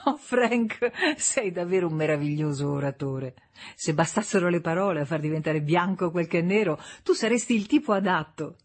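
a hint of a bitter wife needling; April, mocking. Wife taunting her husband after laughing fit, mildly sarcastic. April mocks Frank in argument.

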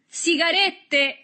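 very high, slow, drawn-out yell; triumphant shout. A narrator's reading. Boy shows off captured cigarettes, shouting high and long. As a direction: announce the prize in a long shout. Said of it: "gridò".

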